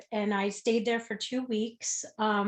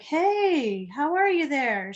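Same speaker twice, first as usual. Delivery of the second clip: high, sing-out nurse hello; nurse greeting patient; 6 semitones higher, slower than usual. Retold or imitated. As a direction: imitate a nurse greeting a patient who just woke. Nurse greeting a just-woken patient.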